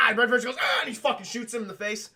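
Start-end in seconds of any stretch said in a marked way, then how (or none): 0.6-0.8 answering mock yell. Fraser yells back.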